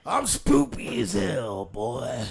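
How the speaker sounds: slow, high, loud spooky drawl; mock-spooky villain voice, slow and loud. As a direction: ham up a spooky villain, stretched out. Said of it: "that's the kind of voice I should be doing".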